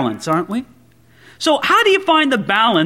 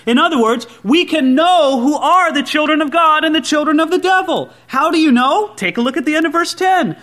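raised scripture-reading voice; emphatic preaching; 5 semitones higher than usual. Acted. Preacher quoting John to the congregation, emphatic preaching. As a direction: preach the verse out point by point.

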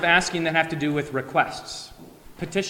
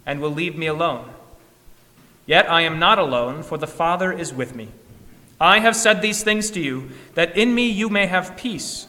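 measured, solemn scripture reading; gospel reading; 3 dB louder than usual. Acted. Pastor reads the gospel lesson to the congregation, solemn and measured.

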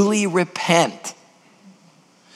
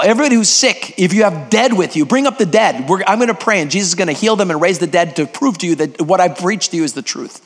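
altar call. Retold or imitated. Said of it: "That's what I said".

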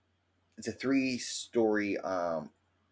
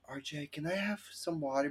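whiny pestering voice; 7 semitones higher, 8 dB quieter than usual. Retold or imitated. Pestering friend.

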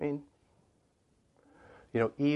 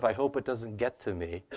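cowering. Retold or imitated. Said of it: "Not this cowering sort of".

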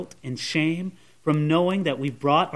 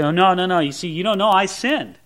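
doubting sinner's protest; 3 semitones higher than usual. Retold or imitated.

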